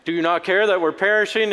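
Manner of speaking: panicked plea. Acted. Disciples wake Jesus in the storm, panicked. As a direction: urgently shake a sleeper awake.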